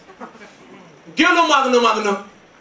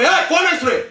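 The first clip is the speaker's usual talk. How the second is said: higher-pitched retold challenge; mock challenge; 5 semitones higher than usual. Rioters confront the speaker on the road, mock challenging. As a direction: stop a passer-by with a sudden demand.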